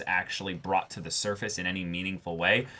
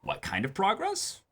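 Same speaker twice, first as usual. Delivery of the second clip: much higher, louder teasing build-up; mock suspense; 11 semitones higher, 5 dB louder than usual. Host teasing fans about what comes next, high mock suspense. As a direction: tease the mystery like a trailer.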